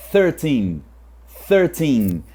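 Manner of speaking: tongue between the teeth for the TH of thirteen; proper TH sound. Shown as a demonstration. Teacher modelling the correct TH in "thirteen". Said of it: "ele sempre vai ter aquele som".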